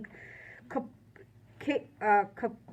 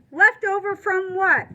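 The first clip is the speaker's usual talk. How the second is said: much higher, louder demand; angry shout; 6 semitones higher, 7 dB louder than usual. Acted. Warden demanding answers, shouting. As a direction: shout it across the desk.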